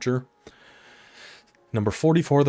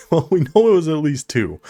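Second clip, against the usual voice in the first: excited; 5 semitones higher, 7 dB louder than usual. Real, not acted. Laughing about the play.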